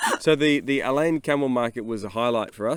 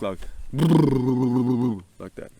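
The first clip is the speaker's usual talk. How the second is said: camel lip flop; 2 semitones lower, much slower than usual. Real, not acted. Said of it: "Their lips go like".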